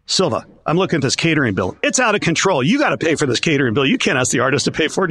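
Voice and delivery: retold scolding. Settlement helper berates promoter over catering, imitated exasperation.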